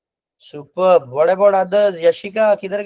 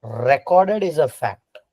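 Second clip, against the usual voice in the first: slow definition; slower than usual. Shown as a demonstration. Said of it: "fact क्या होता है?".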